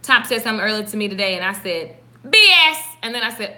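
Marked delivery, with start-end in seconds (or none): 2.3-2.8 blurted cuss. Retold or imitated. Quoting her own blurted cuss.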